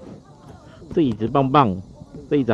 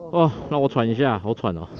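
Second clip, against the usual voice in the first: gasping for air between words; breathless, winded after the ride; out of breath. Real, not acted.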